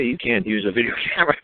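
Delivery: amused, laughing mid-sentence; laughing retelling. Retold or imitated. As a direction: chuckle through the mock warning. Chuckling while retelling the warning.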